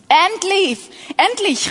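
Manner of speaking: a touch of joyful exclaiming. A narrator's reading. Adam seeing the woman for the first time, mildly exclaiming. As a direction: read Adam's cry with mild delight. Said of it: "rief Adam aus".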